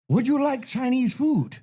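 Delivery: high, slow put-on Asian phone greeting; mock Asian accent. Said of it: "I do a little bit on that".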